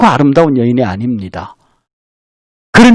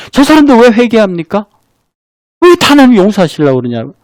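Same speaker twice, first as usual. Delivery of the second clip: higher, heated mock protest to God; angry Jonah; 5 semitones higher than usual. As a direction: retell Jonah's indignant complaint, pitched up. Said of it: "요나가 왜 하나님에게 화를 내냐면". (하나님께 따지는 요나, 높고 격앙된 목소리)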